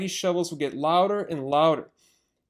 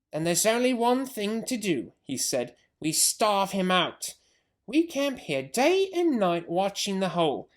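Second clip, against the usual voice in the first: scheming farmer; 3 semitones higher than usual. Acted. Bean scheming.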